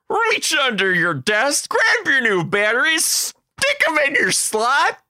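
high, sing-song classroom instructions, slowing on the steps; kindergarten teacher voice. Retold or imitated. Teacher walking the class through a pretend battery swap, sing-song and high. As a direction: lead the little ones like a game show host.

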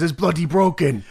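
put-on quick stab at a British accent; clipped British voice for Regal; lucky British accent impression. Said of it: "I could not do that accent again".

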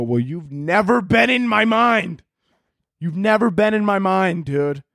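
high-pitched, drawn-out protest; exasperated retort. Retold or imitated. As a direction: wail it back in indignant frustration.

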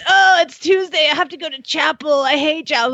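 put-on high whining complaint of a child; grumbling kid. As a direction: sulk about going to chapel. Son complaining about chapel.

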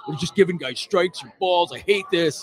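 slow, dopey griping sports fan; dumb sports fan voice. Retold or imitated. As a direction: drag it out like a dim fan complaining. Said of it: "it's the dumb sports fan voice".

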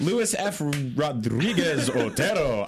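"Luis F Rodriguez Otero" read slowly, with the r in Rodriguez and Otero strongly trilled; rolled r. Shown as a demonstration. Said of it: "I love rolling my R's".

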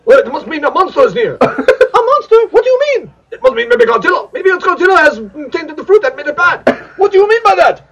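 dumb dub voice. Pretend. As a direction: ham it up like a cheap monster movie dub. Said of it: "when I use my dumb voice".

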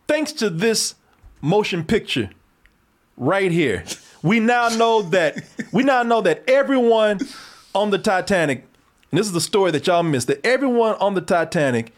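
deliberate, faux-serious proclamation; mock-solemn announcement. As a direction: announce it like a grave revelation. Mock-serious announcement of the film's revelation.

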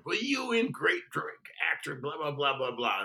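high-pitched mock telling-off; retold tirade. Casting boss tearing into the actor, mock tirade. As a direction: rant in mockery, tailing into blahs. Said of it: "he just tore me a new rear end".

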